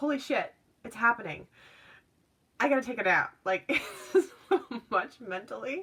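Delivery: high-pitched speech broken by bursts of laughter. Describing the energies in a reading, laughing while talking. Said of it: "I'm sorry, I'm laughing".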